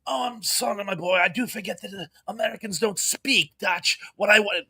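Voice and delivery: imitation of a European's English accent; pronounced English accent. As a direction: put on a light, apologetic English accent. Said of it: "speak it with this pronounced English accent".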